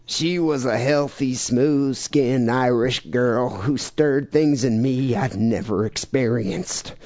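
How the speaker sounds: slow Southern crazy guy drawl; lightly voiced slow Southern drawl; Charles Manson voice. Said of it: "I should be doing this in a Manson voice".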